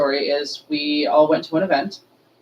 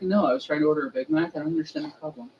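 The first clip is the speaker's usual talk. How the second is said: retold baffled clerk; 4 dB quieter, much faster than usual. Retold clerk answering the manager.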